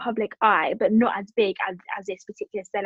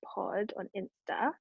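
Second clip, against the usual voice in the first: whispered; 2 semitones lower, 12 dB quieter than usual. Real, not acted. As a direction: whisper the handle like a secret. Quick aside plugging their Instagram.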